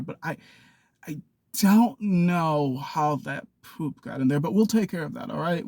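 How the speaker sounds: patient, measured reassurance; calm understanding. Acted. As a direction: soothe an upset person, unhurried. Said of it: "it's with that calmness and understanding".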